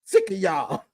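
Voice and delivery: squeaky exasperation. Real, not acted. Mock exasperation.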